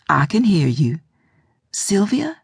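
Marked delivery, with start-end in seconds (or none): 1.7-2.4 whisper. A narrator's reading. Faint voice on failing phone line.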